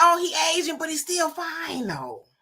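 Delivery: surprised, caught-off-guard tone. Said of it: "he's like".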